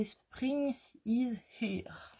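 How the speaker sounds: slow English in a French accent. Real, not acted. Vlogger reading a collection name in English, French accent. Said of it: "Avec mon superbe accent".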